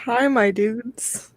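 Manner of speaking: slow, smooth radio host greeting; sultry radio voice. Pretend. Host greets her stream in a slow sultry radio voice. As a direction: croon it like a late-night DJ. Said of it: "get all sultry with your voice".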